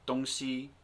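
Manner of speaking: 东西 said as dōngxi in clear standard Mandarin tones; standard Mandarin word. Shown as a demonstration. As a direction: pronounce 东西 the textbook Mandarin way, slightly lifted. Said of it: "is the word for thing in standard Mandarin".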